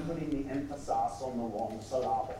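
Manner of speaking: "emphasis" and "syllable" stressed on the wrong middle syllable; misplaced stress. Retold or imitated. Preacher quoting a Scottish teacher's classic line, with misplaced stress. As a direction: shift the beat onto the second syllable of "emphasis" and "syllable". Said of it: "he said the classic line".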